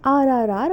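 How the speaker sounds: "R R R" with every r sounded; "R R R" as repeated American r sounds. Shown as a demonstration. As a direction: stress the rhotic r in "R R R", American-style. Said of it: "E R pronounced as".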